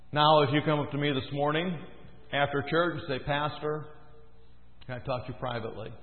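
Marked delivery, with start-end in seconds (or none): 3.2-5.9 hushed request. Retold or imitated. Asking the pastor privately.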